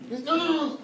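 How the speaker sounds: high wail of refusal; hammed-up cry of dread; panicked pleading. Hysterical teacher fends off a slap, wailing in panic.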